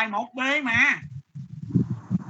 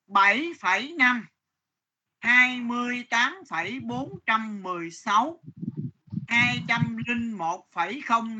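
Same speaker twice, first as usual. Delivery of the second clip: slow dictation; slower than usual. Acted. Teacher dictates numbers to class.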